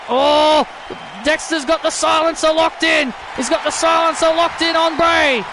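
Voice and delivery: animated wrestling commentary; live play-by-play. Acted. Commentator calling the silencer locked in on Bray, animated play-by-play. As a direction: shout out the hold as it locks in. Calls a submission hold live.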